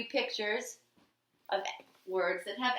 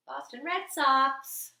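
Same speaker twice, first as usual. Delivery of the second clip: slow, loud, higher, leaning on RED; stretched out; 6 semitones higher, 5 dB louder, slower than usual. Shown as a demonstration. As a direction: draw out "Boston Red Sox" slowly, stress on "red". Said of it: "Red, red socks".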